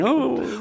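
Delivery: high, weak put-on death groan; hammed-up victim's moan; mock dying gurgle. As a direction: gurgle out a fake last gasp.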